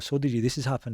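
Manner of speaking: ordinary talk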